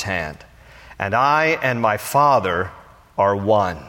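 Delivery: measured Bible reading voice; scripture reading. Acted. Pastor reading scripture to the congregation, measured. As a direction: read the passage to the congregation.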